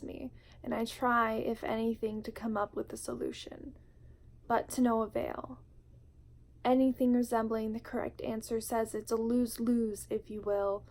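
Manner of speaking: measured, heartfelt poem reading with weighted pauses; spoken word poetry. Acted. Vlogger reading her poem Home to viewers, spoken word delivery. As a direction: read it like a confession, line by line.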